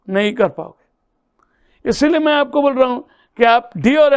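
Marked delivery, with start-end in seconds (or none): 0.1-1.9 slow hushed whisper of the answer; whispered aside to students. Acted. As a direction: drop to a whisper to answer your own question. Teacher answers own question softly.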